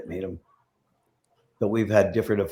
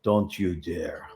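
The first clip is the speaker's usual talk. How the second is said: a slow, low, menacing warning; 4 semitones lower, 5 dB quieter, much slower than usual. Retold or imitated. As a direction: draw it out slowly, like a threat. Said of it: "and he goes".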